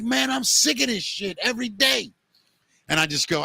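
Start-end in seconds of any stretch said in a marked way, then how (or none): 0.0-2.1 higher, mildly aggravated customer; mock grumbling about the daily grind; quoting the angry customer at the counter, half-hearted gripe; retold fed-up customer. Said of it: "He's like".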